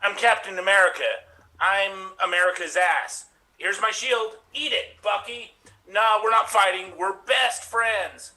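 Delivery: Captain America in a put-on American accent. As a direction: Brit playing an American hero. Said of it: "British people doing American accents".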